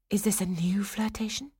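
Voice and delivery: high, breath-light despairing question; despairing wondering. A narrator's reading. Swanhilda questions her sweetheart's faith to herself, despairing. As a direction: wonder aloud in despair, voice lifted. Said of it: "she wondered in despair".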